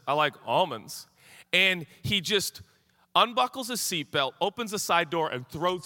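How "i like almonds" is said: "almonds" as AH-monds, open first vowel; friend's pronunciation. Acted. Recalling the friend's line, "almonds" as AH-monds. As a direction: say "almonds" with an AW and no flat A. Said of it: "the guy who says".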